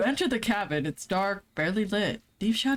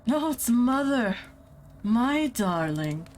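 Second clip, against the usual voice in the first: mother's voice; 4 semitones higher, slower than usual. Acted. GM voicing Russian mother character.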